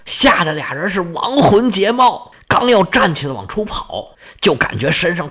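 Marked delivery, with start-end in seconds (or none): none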